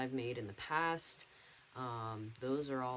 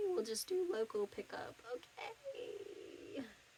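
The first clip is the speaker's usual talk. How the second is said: breathy voice crack breaking mid-word on "okay". Talking about an online shipping form that won't work, voice cracking. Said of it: "Voice crack".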